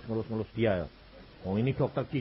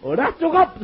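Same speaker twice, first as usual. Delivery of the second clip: laughing protest; 7 dB louder than usual. Retold or imitated. Laughing refusal.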